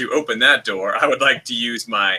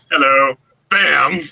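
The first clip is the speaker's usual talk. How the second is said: casual; 4 dB louder, slower than usual. Retold or imitated. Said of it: "I love the casualness".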